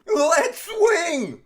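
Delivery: very high, loud battle cry; rallying shout. Pretend. Host launching the show, high rallying shout. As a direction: yell it out to kick off the show.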